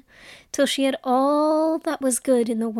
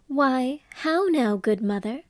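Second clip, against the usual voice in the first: cartoon princess. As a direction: lift into a sweet young princess. Princess speaks to old spinner.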